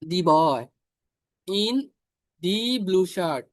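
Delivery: slow, with a clear stress on "the"; a teacher dictating "the boy in the blue shirt" word by word. Shown as a demonstration. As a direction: read it out slowly, leaning on "the boy". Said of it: "নির্দিষ্ট করে বুঝালে".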